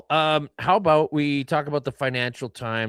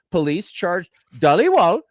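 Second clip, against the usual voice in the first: a light South Asian lilt on Dhaliwal, a bit louder; South Asian accent; 5 semitones higher, 6 dB louder than usual. Acted. Host keeps a light South Asian accent on the name. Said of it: "You gotta do it with the accent".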